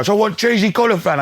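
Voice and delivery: put-on high piped kid's request; child voice. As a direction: voice a small child asking. Quoting his young twins.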